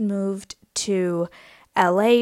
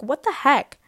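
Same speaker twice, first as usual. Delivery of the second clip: mock exasperation; 7 semitones higher, 7 dB louder than usual. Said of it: "we were like".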